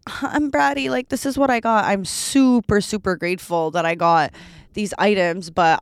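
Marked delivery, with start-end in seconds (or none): 0.1-1.8 mock bratty. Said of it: "not my intention to be like".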